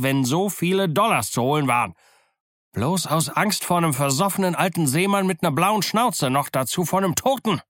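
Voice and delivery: a rallying cry, pushed up high; defiant pirate call. Acted. Silver rallies his scared men with a high defiant call. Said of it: "machte er eine große Anstrengung und rief".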